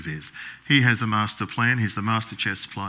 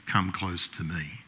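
low, slow and soft; 4 semitones lower, 7 dB quieter, slower than usual. Acted. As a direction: say it low and slow, almost menacing. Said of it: "I bet he didn't say it like that".

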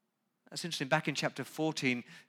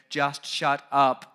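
angry outburst; 7 dB louder, slower than usual. Acted. Job's angry outburst at his friends.

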